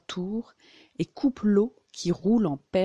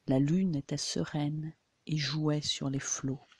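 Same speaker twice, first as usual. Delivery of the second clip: softer, subdued poetry reading; hushed closing refrain; 2 semitones lower, 6 dB quieter than usual. Shown as a demonstration. Reader closing the moonlight poem on its opening line, hushed. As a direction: let the refrain settle softly.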